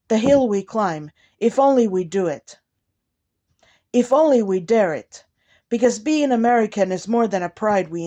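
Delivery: measured inaugural poem delivery, phrase by phrase; poem recitation. Acted. Poet addressing President and nation with a poem, measured formal recitation. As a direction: recite it formally, stressing key words, falling at line ends.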